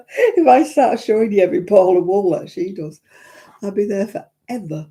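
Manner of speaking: real laughter bubbling through the sentence; laughing through words. Real, not acted. To her viewers about her wool stash, laughing while talking. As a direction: chuckle it out, amused at yourself.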